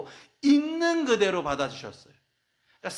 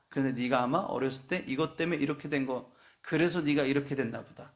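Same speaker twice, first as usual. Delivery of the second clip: Jesus speaking; 3 semitones lower than usual. Acted. Jesus voiced tenderly to sinner.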